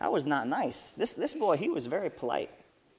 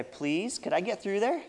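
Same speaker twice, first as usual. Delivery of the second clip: kind, polite please; 3 semitones higher than usual. Shown as a demonstration. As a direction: ask nicely to get past. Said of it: "that sounds a lot better".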